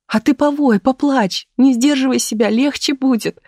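brightly urging her friend to cry it out; glad and eager. A narrator's reading. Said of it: "обрадовалась своей нужности Таисия". (радостно, оживлённо, голосом выше)

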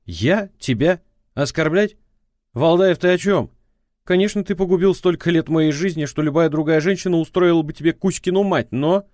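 prosecutor's voice. A narrator's reading. Ex-wife on the phone scolding him, prosecutorial tone.

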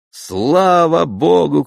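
high, loud, slow cry of relief; elated shout of thanks; joyful shout. A narrator's reading. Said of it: "кричу".

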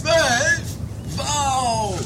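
high, loud astonished cry; delighted at twelve cats, high and loud; amazed question. Acted. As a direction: squeal the number in amazement.

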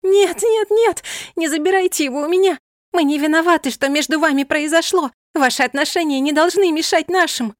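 high, loud desperate pleading; crying out. A narrator's reading. Yasmin begging them not to take Milosh, high and loud. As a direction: shriek out the protest in despair. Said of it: "Ясмин снова вскрикнула".

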